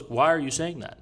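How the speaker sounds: calm. Retold or imitated. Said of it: "Very calmly".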